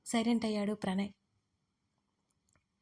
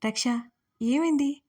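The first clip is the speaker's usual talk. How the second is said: put-on a worried, raised question to the crying girl; anxious; 4 semitones higher, 6 dB louder than usual. A narrator's reading. Arjun asking crying Raksha what happened, anxiously. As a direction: ask in sudden alarm, a touch higher. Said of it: "కంగారుగా".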